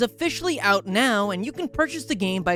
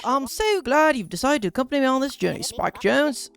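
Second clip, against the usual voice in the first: put-on Australian accent; 4 semitones higher than usual. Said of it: "I refuse to apologize for my accent".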